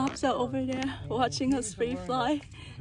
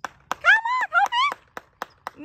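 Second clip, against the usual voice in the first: high, loud coaxing call; high-pitched calling; 6 dB louder, much slower than usual. Real, not acted. Calling a bird back.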